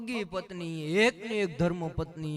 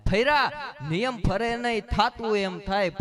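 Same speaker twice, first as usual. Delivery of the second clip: louder punchline repeat; 6 dB louder than usual. Shown as a demonstration. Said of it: "saying repeated louder".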